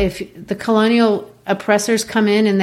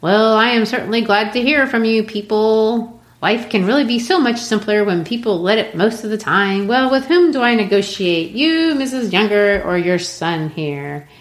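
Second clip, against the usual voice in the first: buffoon; 3 semitones higher than usual. Retold or imitated. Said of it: "he just comes like a complete buffoon".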